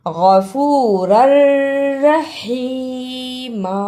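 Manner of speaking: गफूरर रहीमा slowly, the n lost in a doubled r; merged r. Shown as a demonstration. Teacher modelling slowly, गफूरर रहीमा with doubled r. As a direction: roll गफूरर straight into रहीमा, long vowels. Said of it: "इसे गफूरन रहीमा नहीं पढ़ना".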